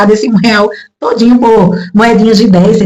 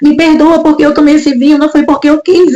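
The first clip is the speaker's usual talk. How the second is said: higher-pitched, pleading retold prayer; retold tearful plea; 5 semitones higher than usual. Daughter begging Jesus to forgive the wine, mildly tearful plea. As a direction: beg Jesus for forgiveness, without real sobs. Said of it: "eu comecei a chorar".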